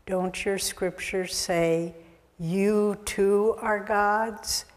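slow, calm question. Retold or imitated. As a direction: let each word land slowly and serenely. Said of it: "And Christ very calmly answers".

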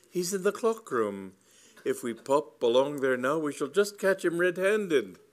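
high, loud, urgent tale-telling; eager accusation. A narrator's reading. Cyril blaming his rival to Lady Bassett, high and eager.

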